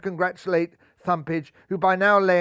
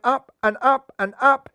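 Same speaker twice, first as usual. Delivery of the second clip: higher, louder as the ball climbs; rising excitement; 7 semitones higher, 5 dB louder than usual. A narrator's reading. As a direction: build with the ball.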